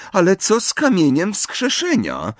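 high-pitched, mocking query with rising end; ironic question. A narrator's reading. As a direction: ask it with pointed irony. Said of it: "zapytała ironicznym tonem". (ironiczny ton)

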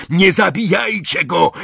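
high, urgent command; urgent shout. A narrator's reading. Malfoy to Crape and Goyle, urgent shout. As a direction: cry out to stop them. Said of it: "ryknął Malfoy na Crape'a i Goyla".

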